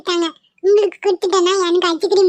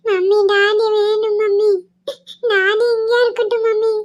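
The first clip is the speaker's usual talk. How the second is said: crying. Acted. Child crying, begging mummy to let daddy stay. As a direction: plead through sobs.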